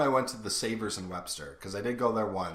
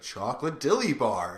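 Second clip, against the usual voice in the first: mock stoked cashier; 3 semitones higher than usual. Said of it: "super stoked to say it".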